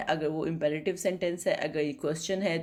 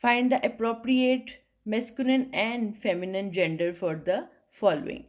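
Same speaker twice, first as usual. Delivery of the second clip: slow, deliberate reading of the heading; textbook read-aloud; 2 semitones higher, much slower than usual. Acted. Teacher reading the heading to students, slow and deliberate. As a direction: read it out word by word for the class. Reads the exercise instruction.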